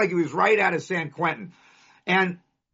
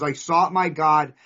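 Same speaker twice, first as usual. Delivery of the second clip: reciting a poem; 3 semitones lower than usual. Real, not acted. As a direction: read it like a prayer. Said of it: "There's a poem in Notre Dame".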